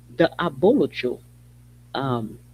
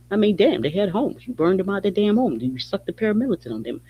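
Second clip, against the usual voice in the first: outraged; 6 semitones higher than usual. Real, not acted. Outraged outburst about burned homes.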